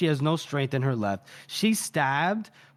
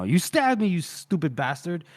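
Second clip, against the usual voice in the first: mild mock yell. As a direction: imitate an angry complaint, half-hearted. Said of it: "he yells".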